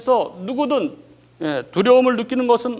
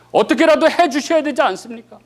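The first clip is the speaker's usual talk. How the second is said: mock plea; 5 semitones higher, 3 dB louder than usual. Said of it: "이런 것입니다".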